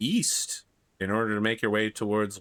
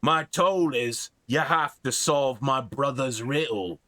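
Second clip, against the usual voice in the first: dopey cartoon bellow; 2 semitones higher, slower than usual. Troll states the toll.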